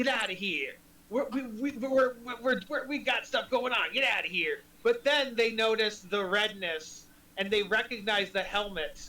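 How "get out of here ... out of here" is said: growling and snarling. Voicing creatures who growl at a group of mortals: growling. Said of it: "they initially growl at the group".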